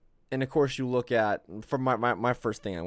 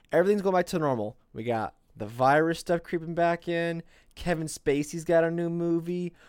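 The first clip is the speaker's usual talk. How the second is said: mock-celebratory announcement, building higher and louder; sarcastic good news, rising to a big punch; 5 semitones higher, 4 dB louder than usual. Host mock-announces Bill Cosby is free, sarcastic fanfare. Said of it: "I'm being very sarcastic".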